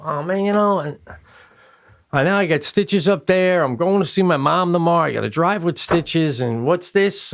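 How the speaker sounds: re-enacted frustrated griping. Patient complaining to his dentist about stitches, frustrated. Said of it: "I'm just, I'm frustrated".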